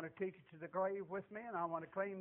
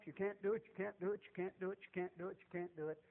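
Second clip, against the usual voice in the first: repeated refrain fading steadily softer; droning discouragement; 4 dB quieter, faster than usual. Retold or imitated. Preacher voices what you're told all your life, monotonous discouragement.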